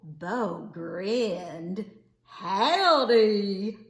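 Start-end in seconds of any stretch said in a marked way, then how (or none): 2.2-3.8 a friendly hollered howdy; louder cowboy howdy; shouting. Acted. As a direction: call out a big cheerful greeting. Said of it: "he shouted".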